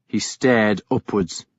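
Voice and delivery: usual speaking voice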